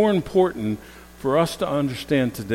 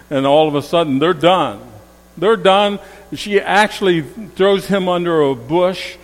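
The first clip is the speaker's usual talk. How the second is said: forceful preaching; 4 semitones higher, 5 dB louder than usual. Acted. Preacher driving the point.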